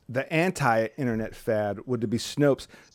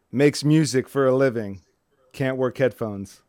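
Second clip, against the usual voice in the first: slow deadpan slogan. Pretend. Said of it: "How about this?".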